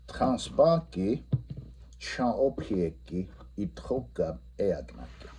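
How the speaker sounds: repeating the Lakota answer; repeat answer, slow. Shown as a demonstration. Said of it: "the answer should be".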